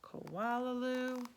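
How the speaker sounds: slow, loving words; slow tender mother. Retold or imitated. Mother imagined saying she loves her, slow and tender. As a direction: say it slowly, with love.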